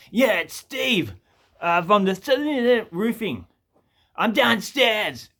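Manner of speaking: high, loud, drawn-out tradie voice; mock roofer announcing himself; imitated phone caller. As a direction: slowly call out who's arrived, as the tradie. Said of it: "and he goes".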